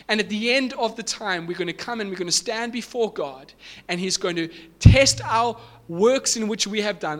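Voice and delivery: insistent preacher, punching key words; emphatic preaching. Real, not acted. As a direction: drive the point home to the congregation. Preaches with rising force.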